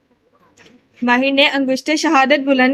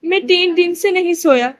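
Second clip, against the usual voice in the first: lightly higher mocking mimicry; mocking Birbal; 4 semitones higher than usual. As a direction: pull a face and ape his words. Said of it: "منہ بگاڑ کے بیربل کی آواز نکالی".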